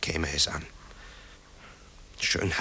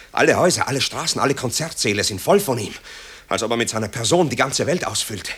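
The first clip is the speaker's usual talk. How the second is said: agitated outburst; 4 semitones higher, 3 dB louder than usual. Acted. Marco's anguished outburst to mother.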